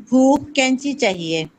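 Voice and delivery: lightly voiced coaxing little girl; pampered child. Niece coaxing her aunt for scissors, lightly pampered. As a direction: wheedle it like a spoilt niece. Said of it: "علینا نے لاڈ سے کہا".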